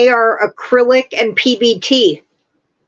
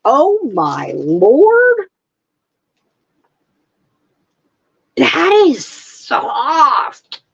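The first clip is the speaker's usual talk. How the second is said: awed; 3 semitones higher, much slower than usual. Real, not acted. First touch of soft yarn.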